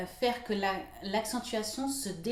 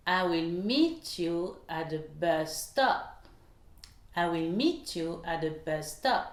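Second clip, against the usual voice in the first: slowed model sentence with MEET, BUS and STOP stressed; sentence stress demo. Shown as a demonstration. Teacher repeats the example for learners, stress on MEET, BUS, STOP. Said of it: "il y a trois mots accentués".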